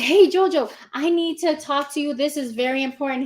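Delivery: loud, high call to her son. Retold or imitated. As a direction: call him over, urgent. Mom calling to her son.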